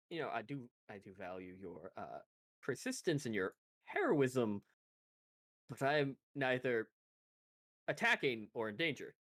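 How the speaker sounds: low, lightly drawled southern gentleman; courteous southern accent, pitched low. Acted. Bounty hunter answers would-be rescuer with pistol drawn, southern accent. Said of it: "his deep southern accent".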